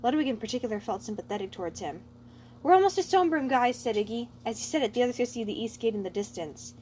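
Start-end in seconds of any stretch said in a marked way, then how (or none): 2.6-3.8 high, louder upbeat call; eager call. Acted. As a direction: call ahead brightly to the group. Iggy calling out to group.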